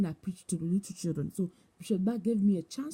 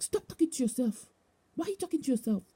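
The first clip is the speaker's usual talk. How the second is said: imitated harsh scolding; 5 semitones higher, faster than usual. Hard bishop to woman talking to herself, mock scolding. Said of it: "Bishop Richard was so hard on me".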